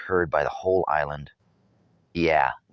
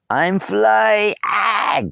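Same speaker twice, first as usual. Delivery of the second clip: falling cry; 7 dB louder, much slower than usual. A narrator's reading. Boy falling in the wind.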